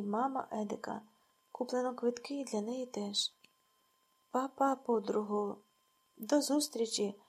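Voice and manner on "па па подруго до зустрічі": nasty mocking goodbye. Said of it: "каже Люда й противно реготить".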